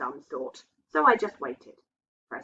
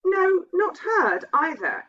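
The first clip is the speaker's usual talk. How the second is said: nervous husband; 11 semitones higher, 5 dB louder, slower than usual. A narrator's reading. Husband answers slowly, uneasy.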